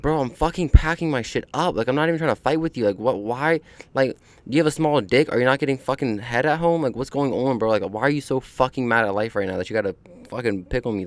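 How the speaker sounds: exasperated retort. Retold or imitated. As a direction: vent at the guard, half mocking, half annoyed. Retold rant at aggressive guard.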